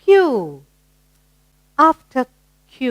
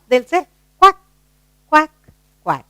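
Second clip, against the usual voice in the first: duck quacks; 5 semitones higher, 4 dB louder than usual. Shown as a demonstration. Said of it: "when the ducks are moving about".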